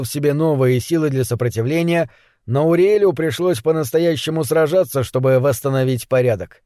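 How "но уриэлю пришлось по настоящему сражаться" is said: ordinary delivery, nothing marked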